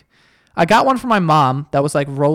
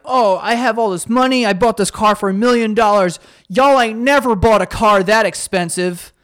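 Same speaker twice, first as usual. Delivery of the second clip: lightly voiced show-off, a bit higher; mock bragging kid; 5 semitones higher than usual. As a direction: brag like a flexing kid.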